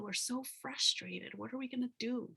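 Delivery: mildly exasperated retold lament; frustrated. Voicing how we all feel, frustrated. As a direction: let frustration lift the pitch at the end. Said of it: "he's so frustrated".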